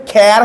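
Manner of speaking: খ্যার with the open apple vowel; wrong reading demo. Shown as a demonstration. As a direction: sound out খ্যার as a mistaken 'care'-like reading. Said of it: "তাহলে কি হবে?".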